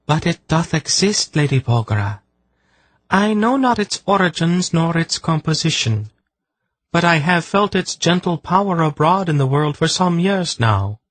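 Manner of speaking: an otherworldly blind seer urging; urgent, ringing, archaic commands; solemn seer. A narrator's reading. Seer explains the remedy.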